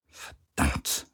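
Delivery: whispered "Verdammt" under the breath; muttering. A narrator's reading. Captain cursing to herself with eyes shut, whispered. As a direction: hiss the curse to herself, voiceless. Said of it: "murmelte sie".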